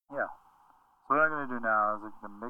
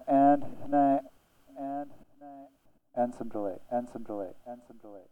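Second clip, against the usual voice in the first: layered effects. Shown as a demonstration. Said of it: "mix it in with some high depth reverb".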